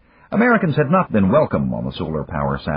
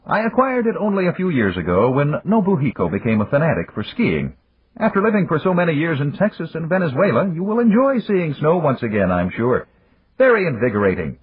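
higher, unhurried voice of an amused magnate; Yamagata; 12 semitones higher, 3 dB louder than usual. A narrator's reading. Yamagata chiding Dan for the early call, higher and amused. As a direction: tease an old friend from a position of power.

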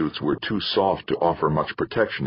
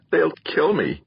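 higher, alarmed repeat; contained roar, much higher in pitch; 10 semitones higher than usual. A narrator's reading. Theo's inner voice fearing for his life, roared. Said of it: "roared a voice in his head".

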